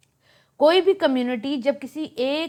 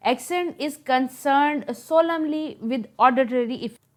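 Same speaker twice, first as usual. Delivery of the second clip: dictation; 3 semitones higher, much slower than usual. Shown as a demonstration. Teacher dictates English definition.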